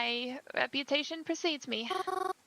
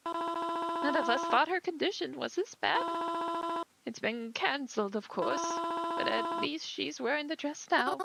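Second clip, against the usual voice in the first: higher, gentle voice of a bereaved mother; a mother startled at her daughter's funeral; grieving mother; 5 semitones higher than usual. Acted. Grieving mother greets a stranger at the funeral, gently.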